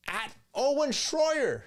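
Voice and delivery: high, slow mock shriek; mock screaming woman. Streamer mocking debater yelling at Owen like a wife. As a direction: shriek the name like a nagging wife. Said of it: "channeling his screaming woman".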